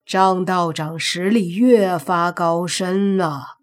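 slow, drawn-out compliment; genial praise. Acted. Family head compliments the Taoist's power, genial praise. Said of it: "秦家主呵呵一笑".

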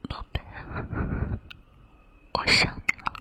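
soft whisper right at the ear. Acted. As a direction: breathe it softly into his ear. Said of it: "姐姐就趴在你耳边 悄悄说一句".

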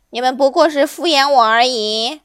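loud monkey complaint; put-out, emphatic monkey; aggrieved monkey. Acted. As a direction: grumble at being fobbed off. Monkey complains of being brushed off.

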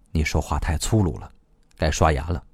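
low, soft, close-up scolding; calm reproof. A narrator's reading. Face close to the one who yelled, calm. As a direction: answer the yelling very quietly.

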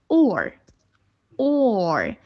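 or as a long rounded vowel into r; O plus R sound. Shown as a demonstration. Teacher demonstrating O with R, slow, drawn-out or. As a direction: draw or out slowly, ending on a curled r. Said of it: "这两个加一起会发".

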